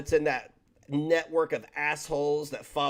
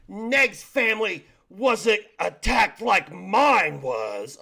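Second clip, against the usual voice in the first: mock whine; 4 semitones higher, 7 dB louder, much slower than usual. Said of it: "she's out there, you know".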